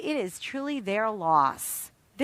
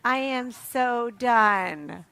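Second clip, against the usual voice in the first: exhausted friend; 2 semitones lower, much slower than usual. Retold or imitated. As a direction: sound too tired to go on, fading into a near-mumble. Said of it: "she's like".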